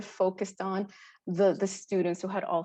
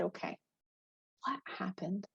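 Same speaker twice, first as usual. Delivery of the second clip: gentle question; 10 dB quieter than usual. Retold or imitated. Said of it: "I said".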